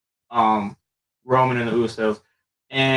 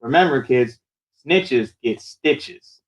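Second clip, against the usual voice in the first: Bray; slower than usual. Retold or imitated. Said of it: "Bray snagged his mouth and he said".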